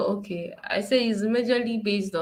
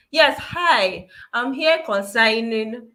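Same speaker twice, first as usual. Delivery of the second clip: higher, louder and upbeat, then slow on consigning; matching their energy; 4 semitones higher, 5 dB louder, slower than usual. Shown as a demonstration. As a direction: lift your voice to match the brisk customer. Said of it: "follow their tone and flow with them".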